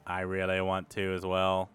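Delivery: low, quiet aside in character; lightly voiced Erdan. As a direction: confide it softly to a companion. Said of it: "and be like".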